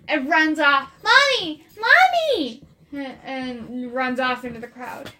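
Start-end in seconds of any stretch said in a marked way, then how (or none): 1.0-2.6 put-on high, loud child's call. Girl runs into the crowd calling her mother, loud call. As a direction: call out for mommy, thrilled.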